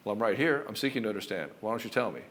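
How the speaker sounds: calm and certain. Shown as a demonstration. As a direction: stay grounded and invite her to talk. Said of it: "with a calm certainty and power".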